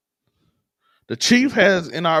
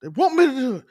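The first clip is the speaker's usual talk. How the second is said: pitched up, pushed whisper-shout; whisper yelling; 8 semitones higher, 4 dB louder than usual. Pretend. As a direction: yell it under your breath. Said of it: "whispering and yelling still".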